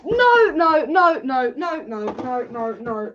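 repeated protest, falling in pitch and volume; deflating despair; sinking dismay. Real, not acted. Fading protest at conceded goal.

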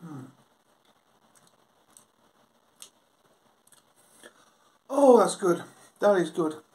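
talking with mouth partly full; savoring a mouthful; chewing food. Real, not acted. Seen 0: Fork in mouth at -12, jaw working after; still chewing at words.

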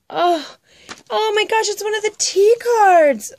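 excited squeal. Real, not acted. Vlogger thrilled opening her friend's tea card, squealing. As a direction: gasp and squeal with joy.

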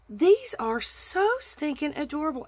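squealing with delight; excited gushing. Real, not acted. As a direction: coo over it like a delighted crafter. Gushing over craft goodies.

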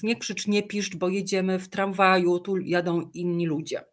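put-on even, patient hush to the child; calm mum voice. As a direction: keep it steady and gentle. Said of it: "ale spokojnie, nie krzycząc".

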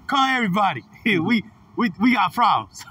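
high-pitched mock panic, yelling for everyone; Martin Lawrence. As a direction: play it like a panicked comedy hero rounding up help. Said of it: "Martin Lawrence and stuff".

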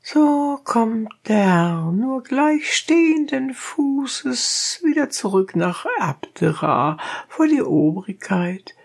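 high, rough peasant voice; donkey driver. A narrator's reading. Donkey driver challenging the dentist, high and blunt.

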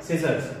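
सीजर्स with the final s pronounced; सीजर्स ending in r plus s; correct pronunciation. Shown as a demonstration. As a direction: model सीजर्स, closing on an s. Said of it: "इसका सही pronunciation और सही है".

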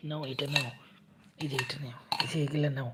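soft and hushed, a whisper on the last words; quietly tuck the child in while hiding. Pretend. Covering baby up while hiding.

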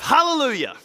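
high, ringing cry of praise; joyful cry. Acted. Newly baptised man rises from the water, crying out. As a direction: cry it out, pitch leaping up and falling away. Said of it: "reborn to a cry of".

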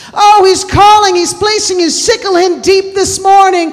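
full-force preaching. Acted. Preacher urging the church to hear God's call, full-force preaching. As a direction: preach it out loudly.

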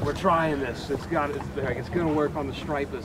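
imitating Boston charter captains' accent. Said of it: "you just had that Boston accent".

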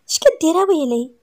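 catching him red-handed; shocked. A narrator's reading. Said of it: "سناء بصدمه".

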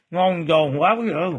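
talking through crunchy bites; crunching chips. Real, not acted. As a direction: speak while chewing something crispy. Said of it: "Nó giòn rụm luôn".

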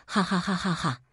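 a burst of wild, arrogant laughter. A narrator's reading. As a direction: laugh it off like a villain who cares nothing. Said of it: "陈丞相狂妄大笑". (狂妄大笑)

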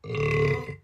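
low comic burp; bilious belch. A narrator's reading. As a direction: let out a rumbling belch. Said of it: "engulfed in a bilious belch".

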